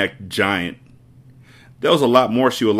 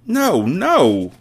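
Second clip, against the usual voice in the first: higher, urgent no no; crying out; 8 semitones higher, 4 dB louder than usual. Acted. Miss Honey objecting to the headmistress, urgent and higher. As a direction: protest in a rush. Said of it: "Miss Honey cried out".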